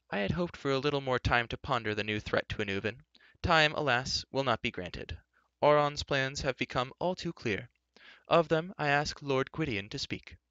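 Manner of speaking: put-on high, regretful old man's voice; old enchanter, grave. Old enchanter hands the council to the lord, grave.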